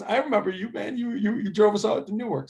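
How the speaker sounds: a hint of the grown player teasing; friendly recognition. Recruit remembers the coach who drove him, lightly voiced. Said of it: "He goes".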